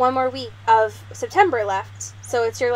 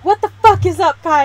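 quoting a vine; 6 semitones higher, 9 dB louder, faster than usual. Retold or imitated. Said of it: "one that's like".

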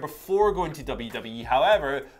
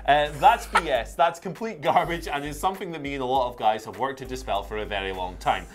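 Gargano quote. Retold or imitated. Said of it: "shall I do it in his voice?".

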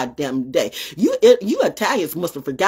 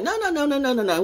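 mom refusing; 8 semitones higher, 3 dB quieter, faster than usual. Retold or imitated. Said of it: "It's like".

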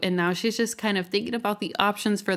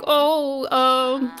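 higher-pitched hedging at first, easing down; mock hesitant critic; 4 semitones higher than usual. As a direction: imitate a doubtful friend finding fault. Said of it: "She pretending like".

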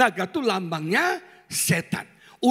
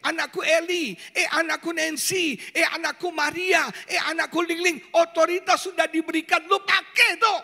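God speaking; 6 semitones higher than usual. Acted. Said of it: "Maksud Tuhan".

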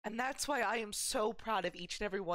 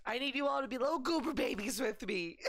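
laughing through tears; 5 semitones higher than usual. Real, not acted. Streamer tearful, laughing with chat.

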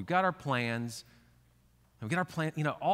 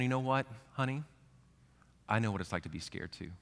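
tender reassurance; 3 dB quieter, faster than usual. Retold or imitated. Parent comforting a scared child, soft and tender. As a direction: soothe a frightened child gently.

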